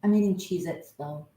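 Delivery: talking with a mouthful of crackers; mouth full. Real, not acted. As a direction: speak through a mouth full of chips. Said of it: "sorry I'm talking with my mouth full".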